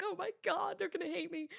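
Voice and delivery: lightly panicked, voice lifted high; mock panic. Caster recalls crashing on a gig, mock panic.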